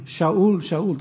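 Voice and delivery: Shaul, Shaul with a clear sh, the second falling away; Hebrew Shaul. Shown as a demonstration. Preacher voicing the Lord calling Saul in Hebrew: Shaul, Shaul. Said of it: "the Lord spoke in Hebrew to him".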